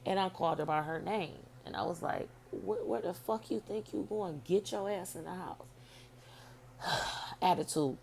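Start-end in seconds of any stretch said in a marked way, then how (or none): 2.5-5.6 retold scolding. Mother ordering her teenage daughter back inside, retold scolding. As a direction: scold the kid in a raised pitch without shouting.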